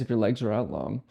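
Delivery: ordinary talk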